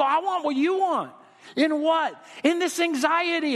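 put-on high, earnest child's plea; a kid laying out a worry; child telling dad about anxiety, high and earnest; pleading child. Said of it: "You go".

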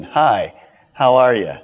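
casual greeting. Pretend. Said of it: "That's a whole lot different than".

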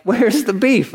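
put-on punchy high catchphrase from the old ad; commercial catchphrase. The speaker quoting old commercial.

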